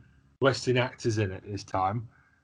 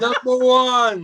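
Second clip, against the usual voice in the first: grizzled announcer voice; 11 semitones higher, 6 dB louder, slower than usual. Pretend. Mimicking friend's hype voice.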